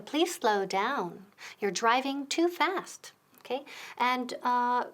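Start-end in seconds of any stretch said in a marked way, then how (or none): 0.0-3.1 slow model sentence. Shown as a demonstration.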